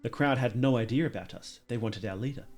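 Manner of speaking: measured story narration; reading game text. Acted. Player reading a nobleman's account aloud, measured narration. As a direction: read it out like an old account.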